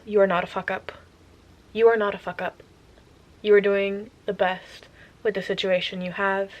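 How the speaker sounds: gentle, sincere comfort to the viewer; reassuring pep talk. Real, not acted. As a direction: soothe someone who feels like a failure. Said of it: "comforting viewers directly".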